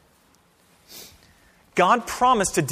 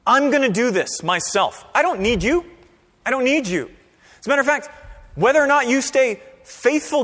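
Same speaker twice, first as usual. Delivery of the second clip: voicing God; 4 semitones higher than usual. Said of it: "It is God saying".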